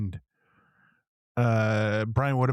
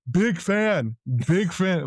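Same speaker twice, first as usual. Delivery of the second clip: higher, louder blurt of a starstruck fan; mock loud blurt; 8 semitones higher, much slower than usual. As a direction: mimic blurting it out too loud. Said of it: "You were so loud".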